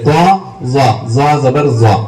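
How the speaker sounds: "زوا زبر زوا" with tongue against upper teeth edges; zwa articulation demo. Shown as a demonstration. Teacher showing zwa's point of articulation, deliberate "زوا زبر زوا". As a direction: slowly sound out a heavy "زوا". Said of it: "اوپر کے دانتوں کے کناروں کو لگانے سے زوا کی آواز".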